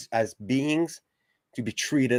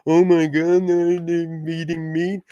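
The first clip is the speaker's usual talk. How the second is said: higher, mock-shocked gasp; mocking quote; 5 semitones higher than usual. Mocking meat-eaters' fake outrage, higher mock shock. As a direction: send up their outrage in a put-on voice. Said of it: "they're saying".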